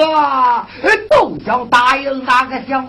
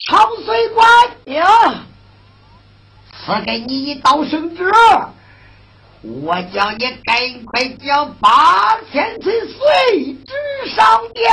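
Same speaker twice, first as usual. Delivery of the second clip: emperor's command; 4 semitones higher than usual. Acted. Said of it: "说道".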